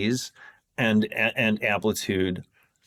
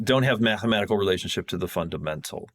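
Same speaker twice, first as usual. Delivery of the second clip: rushed, running the words together; talking too fast; faster than usual. Real, not acted. Explainer getting carried away with technical detail, talking too fast. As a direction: hurry through it at a quick clip. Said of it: "now I'm talking too fast".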